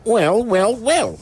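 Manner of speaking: exclaiming. A narrator's reading. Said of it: "he exclaimed".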